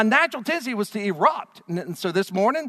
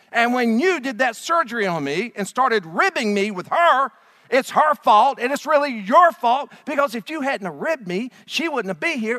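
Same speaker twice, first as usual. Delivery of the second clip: loud, higher, indignant complaint; Adam blaming God; 4 semitones higher, 6 dB louder than usual. Acted. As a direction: whine it all at God like a wronged man.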